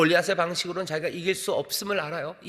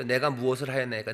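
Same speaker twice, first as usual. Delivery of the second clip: put-on mildly defiant kid-brother reading; talking back; 2 semitones lower than usual. Shown as a demonstration. Youngest answering his older brother, talking back. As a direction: put some protest into the formal words. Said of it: "막내들이 형한테 좀 대듭니다".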